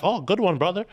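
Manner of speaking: polite hockey player. Retold or imitated. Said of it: "they'll be like".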